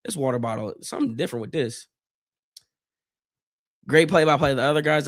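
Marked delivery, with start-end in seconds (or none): 0.0-1.9 retold disbelief. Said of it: "I was like".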